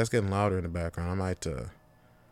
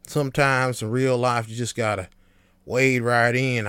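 put-on folksy Southern accent; 3 dB louder than usual. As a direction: lean into a country fisherman twang. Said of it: "I don't know where I'm getting this accent from".

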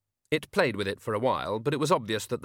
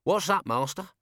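nearer, louder cockney call; closer old servant voice; 7 semitones higher, 3 dB louder than usual. Acted. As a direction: call from just outside the door. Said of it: "Albert's voice sounded a lot closer".

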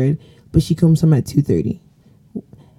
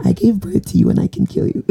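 higher, laughing mom threat; hammed-up mom threat; mock angry mom; 6 semitones higher than usual. Host playing a threatening mom to her guest, mocking. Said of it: "how parents say things".

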